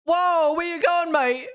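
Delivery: loud, high-pitched shock; real startled outburst; startled exclamation. Real, not acted. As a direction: call out in alarm at a sudden mistake. Reacts to a driver locking up.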